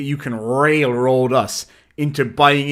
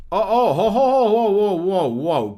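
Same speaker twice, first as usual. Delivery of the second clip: surprised whoa; 7 semitones higher, 4 dB louder than usual. Real, not acted. Reacting to a chat message.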